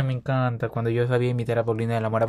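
ordinary talk, nothing marked

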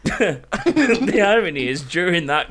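talking with food in mouth; mouth full. Real, not acted. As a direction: talk through a mouthful. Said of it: "What you eating?".

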